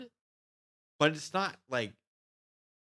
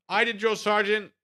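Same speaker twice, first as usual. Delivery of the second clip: eager recruit reply; 10 semitones higher, 8 dB louder than usual. Retold or imitated. Recruit answering drill sergeant.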